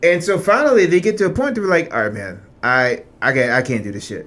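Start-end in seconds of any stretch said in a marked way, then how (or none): 1.9-4.2 weary resignation. Retold or imitated. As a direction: voice someone tired out, mildly resigned. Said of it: "fucking tired".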